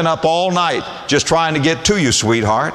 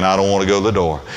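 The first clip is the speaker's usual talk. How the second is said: hurried fake protest; 6 semitones lower, much faster than usual.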